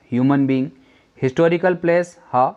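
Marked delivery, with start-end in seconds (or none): 0.1-0.7 "ह्यूमन" with an audible H at the start; H sounded. Shown as a demonstration. Teacher points out the consonant, "ह्यूमन" with H pronounced. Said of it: "हा का उच्चारण आया".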